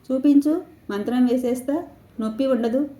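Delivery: a touch of sing-song comforting; soothing grandmother. Acted. Grandmother soothing a hurt child. (పిల్లాడిని బుజ్జగిస్తున్నట్టు కాస్త హెచ్చు స్వరంతో)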